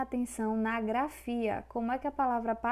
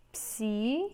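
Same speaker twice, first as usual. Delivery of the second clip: "Psicológico" in held pieces: psi, co, ló, gi, co; syllable by syllable; faster than usual. Shown as a demonstration. Teacher showing syllabic separation, syllable by syllable. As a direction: break "Psicológico" apart with long pauses. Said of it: "É assim que a gente faz a separação silábica".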